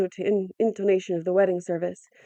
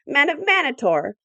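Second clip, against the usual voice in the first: put-on higher crackling old man's call; thin shrill old voice; 6 semitones higher, 3 dB louder than usual. A narrator's reading. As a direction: crackle like a frail elder. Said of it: "he crackled in his thin, shrill voice".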